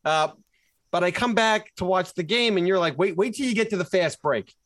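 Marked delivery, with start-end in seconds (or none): 3.0-4.5 imitating his co-host. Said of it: "you said to me".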